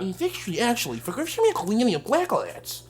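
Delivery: soft mock nerd lecture; nerdy professor. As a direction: imitate a pompous nerd professor. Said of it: "he just talk like a nerd".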